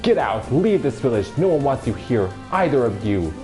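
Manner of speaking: loud shouting threat; furious yell. Acted. Bully yells at Kaine and grandmother, loud and furious. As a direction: shout them out of town.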